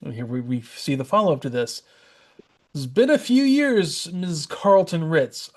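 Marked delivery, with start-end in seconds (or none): 2.7-5.5 slow, knowing character voice. Retold or imitated. Reading a character's line.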